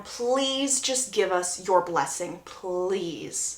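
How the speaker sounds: slow, soft begging; pleading. Retold or imitated. Asking Laurel for her blessing, pleading. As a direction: draw out each please imploringly.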